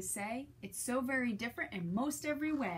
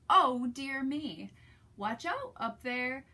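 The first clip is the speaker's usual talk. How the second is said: loud, slow worried warning; mock alarmed call up the pile; Trevor crying out; 6 dB louder, slower than usual. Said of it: "good Trevor did cry".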